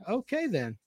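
whispered aside. Real, not acted. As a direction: breathe it under your breath. Aside after listener comments.

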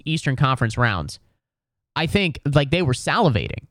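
ordinary delivery

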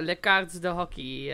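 slow, halting French words; careful schoolbook French; terrible French. Shown as a demonstration. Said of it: "Apologies for my terrible French".

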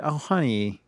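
a light drawn-out "Oh, honey" in her voice; mimicking the singer calling him honey; imitating a singer. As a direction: coo "Oh, honey" like a kind star. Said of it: "she called me honey".

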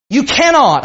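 emphatic preacher's stress on "cannot". Real, not acted. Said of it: "I want to say this very emphatically".

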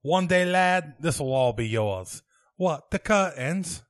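English Monty Python father and son; lightly put-on English accent; a hint of a Monty Python Englishman. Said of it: "as long as it is a Monty Python quote".

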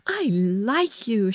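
high, slow call. A narrator's reading. Mary calling up to the robin, high and slow. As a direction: stretch it out as if calling across the garden. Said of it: "she called".

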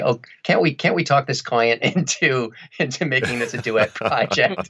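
lightly pleading, with a laugh in it; mock begging. Husband begging his wife at breakfast, mock pleading. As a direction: coax her playfully, pitch nudged up. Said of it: "I am just begging her".

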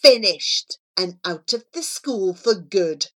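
lightly acted gloating bully; triumphant taunt. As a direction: crow over a beaten rival, voice lifting. Villain gloats over his victory.

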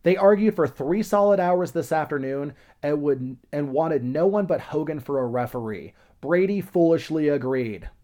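retold shout.

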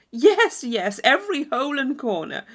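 high, loud, overeager Thorpe; eager promise. Acted. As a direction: promise everything at once.

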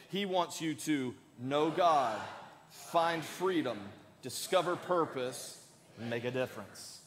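pace it so everyone can say it along; leading group recitation. Shown as a demonstration. Repeats the recitation with congregation.

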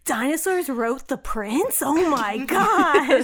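slow, hammed-up astonishment at a silly twist; mock amazement. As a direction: stretch it out in playful disbelief.

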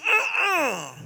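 high, falling uh-uh of refusal; warning uh-uh. Acted. Inner voice warning against a bad deal, high refusing uh-uh. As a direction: warn them off with a high-pitched uh-uh.

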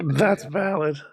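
squeaky voice break; voice cracking. Real, not acted. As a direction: voice squeaks up on the words. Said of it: "my voice squeaked a little bit".

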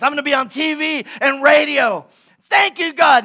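high, loud, hammed-up boasting shout; mock-heroic bellow; triumphant proclamation. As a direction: proclaim it from a rooftop to the whole city. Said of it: "he stands up and he says".

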